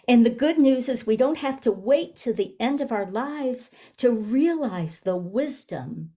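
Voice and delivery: measured reading with long pauses between phrases; reflective, spaced-out book reading; reading aloud. Real, not acted. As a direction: read the passage deliberately, giving each phrase room. Reads book passage aloud.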